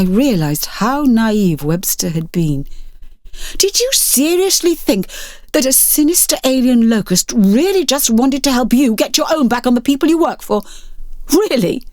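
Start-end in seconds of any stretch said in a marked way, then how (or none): 3.6-11.8 incredulous. Acted. Sarah scolds naive Webster.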